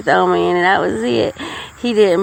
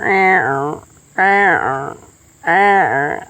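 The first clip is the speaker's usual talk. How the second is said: washing machine noise; 4 semitones lower, much slower than usual. Retold or imitated. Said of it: "and I heard".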